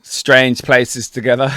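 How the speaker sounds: slow, oddly loaded delivery; unintentionally suggestive, slow phrasing; weirdly suggestive. Real, not acted. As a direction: draw it out so it sounds dodgy. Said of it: "make that sound so strange".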